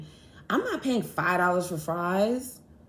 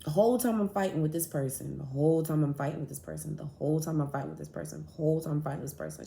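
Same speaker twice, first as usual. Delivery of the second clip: each repeat softer and faster, trailing away; fading repetition; 3 semitones lower, 6 dB quieter, faster than usual. Real, not acted. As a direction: let the phrase fade and speed up like a loop. Repeated line, fading each time.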